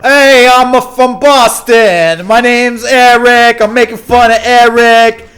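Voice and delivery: loud, high, drawn-out Boston taunt; big hammed-up Boston mockery; mock Boston accent. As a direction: jeer slowly in exaggerated Boston. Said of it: "So that's Boston".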